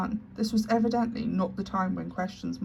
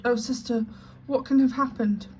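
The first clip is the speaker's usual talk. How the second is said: higher, louder tearful wail; crying out; 4 semitones higher, 4 dB louder than usual. Acted. Sister hears of the death, cries out higher and louder. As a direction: Miss Amelia crying out in dismay, a touch tearful. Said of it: "wring her fat hands and cry".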